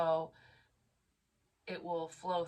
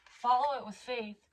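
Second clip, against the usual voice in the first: real tearful reading, higher pitch; emotional; 8 semitones higher than usual. Real, not acted. Reader choking up reading to viewers, emotional. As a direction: push through while moved. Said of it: "making me so emotional".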